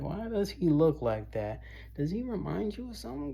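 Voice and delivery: a gossiping stranger wondering aloud; curious onlooker. Retold or imitated. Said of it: "see something and be like".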